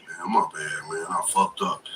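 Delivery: low, soft admission of fault; imitating a subdued apology; sheepish retold apology. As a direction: drop down low and own up meekly. Acting out his apology to officer.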